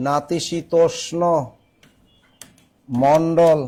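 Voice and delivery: slow, syllable-by-syllable delivery with a pause; slow dictation. Real, not acted. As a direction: spell it out by ear for note-takers, slowly. Teacher dictates term for writing. (ধীরে ভেঙে ভেঙে শ্রুতিলিখন)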